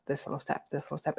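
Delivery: soft whisper, almost no voice. Real, not acted. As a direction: drop to a whisper on the repeat. Repeated phrase, whispered.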